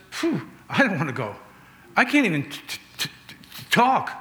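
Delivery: reluctant, then stuck stammering on "talk"; stuttering Moses. Acted. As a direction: stammer the t of "talk" over and over before it bursts out. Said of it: "Moses couldn't speak".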